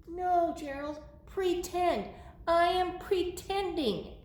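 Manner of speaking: lightly voiced storybook explainer; patient Piggy. Piggy correcting Gerald about pretending, patient.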